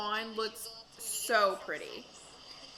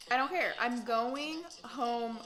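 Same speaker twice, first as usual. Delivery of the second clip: emphatic; 2 semitones higher, slower than usual. Real, not acted. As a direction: punch it out as if you mean it. Repeated, louder and higher.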